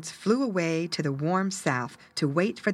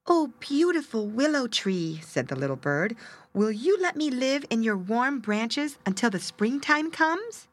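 pleading little bird; 5 semitones higher than usual. Acted.

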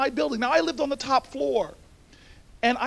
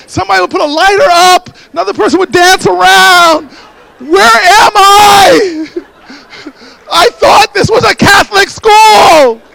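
shouting, much higher, hammed-up disbelief; mock outrage; 7 semitones higher, 18 dB louder than usual. Real, not acted. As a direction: play up the shock that nobody reacts. Mock outrage at silent audience.

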